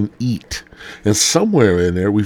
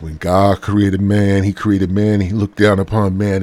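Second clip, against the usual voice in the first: Carl Lentz. Pretend. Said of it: "Carl Lentz is up in this motherfucker now".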